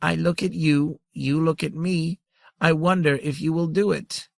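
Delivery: unbothered, even calm reply. Acted. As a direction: stay calm under threat. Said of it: "the ultimate grandmother said calmly".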